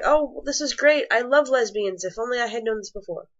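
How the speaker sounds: mock-enthusiastic fan reaction; gushing new fan. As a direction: act out a listener thrilled by a new find. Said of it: "and then be like".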